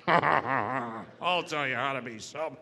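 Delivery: mock know-it-all sharer, slow and drawn out; happy sober people. Happy sober member wanting to share, slow mocking imitation. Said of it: "they're the happy, sober people that wanna share".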